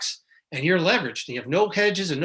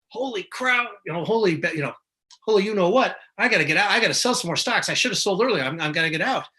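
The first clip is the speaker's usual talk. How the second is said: mock panic; 2 semitones higher than usual. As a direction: play the jittery seller rushing to dump stocks. Panicking investor selling stocks.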